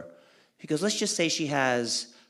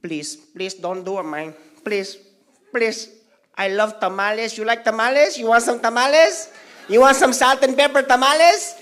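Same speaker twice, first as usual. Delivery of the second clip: pleading; 7 semitones higher, 7 dB louder than usual. Retold or imitated. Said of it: "I said".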